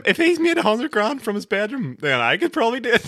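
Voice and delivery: laughing. Real, not acted. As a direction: laugh through it at your own foolishness. Laughing at his own gullibility.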